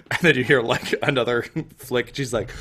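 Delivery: usual speaking voice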